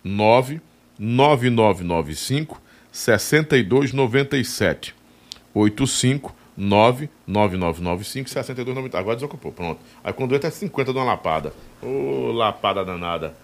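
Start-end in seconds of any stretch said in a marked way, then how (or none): 0.0-4.9 digits spaced out slowly; slow dictation. Shown as a demonstration. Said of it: "negada, só". 5.5-9.0 digits spaced out slowly; slow dictation. Shown as a demonstration. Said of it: "negada, só".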